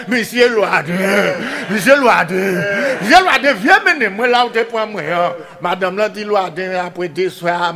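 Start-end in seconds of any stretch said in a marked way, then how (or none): 0.1-5.0 calling out. Acted. Pig calls Loaden again.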